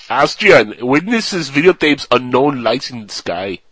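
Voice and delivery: slow mock Austrian accent; lightly hammed-up Austrian accent. Shown as a demonstration. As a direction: read it slowly, as an Austrian would. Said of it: "the way you would expect an Austrian to say it".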